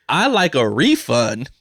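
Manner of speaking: laughing through a wry joke. Real, not acted. Joking to viewers he wants a refund, laughing. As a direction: chuckle through it as a bitter joke. Joking bitterly about cancer.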